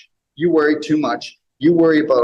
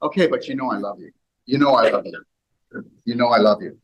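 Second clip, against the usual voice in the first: gentle loving reassurance; 3 semitones lower, faster than usual. Shown as a demonstration. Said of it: "it'll be like this".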